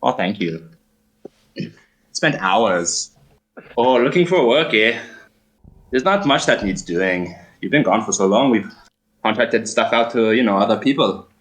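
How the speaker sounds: light camp German lilt; fussy, flirty barkeep voice; effeminate German man. Acted. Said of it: "effeminate German man".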